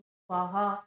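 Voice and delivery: स्वाहा called out like at a home fire ritual; ritual offering call. Shown as a demonstration. Teacher showing how families intone स्वाहा at yajna. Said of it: "स्वाहा ऐसे बोलते हैं".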